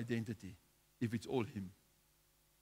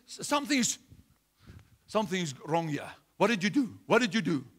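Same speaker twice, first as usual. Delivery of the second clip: astonished insistence; 6 semitones higher, 9 dB louder than usual. Retold or imitated. Healed man insists something happened.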